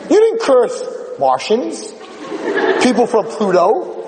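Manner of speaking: high, building to a shout on God; the rabbi proving to the girl that she believes in God; passionate preaching. Retold or imitated. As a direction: drive the point home, rising to a cry.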